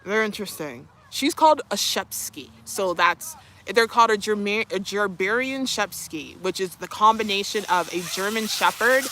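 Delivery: usual speaking voice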